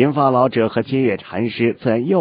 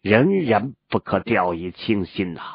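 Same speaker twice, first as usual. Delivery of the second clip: wise mentor. Acted. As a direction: speak as a measured old sage. Elder urges pursuit of enemy.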